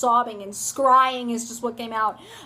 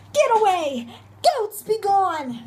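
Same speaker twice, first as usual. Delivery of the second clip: mock shout; 6 semitones higher, slower than usual. Retelling, shouting at goats.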